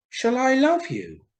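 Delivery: eager swallow. Acted. Swallow courting the reed, high and eager. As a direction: chirp it out straight to the point. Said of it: "asked the swallow".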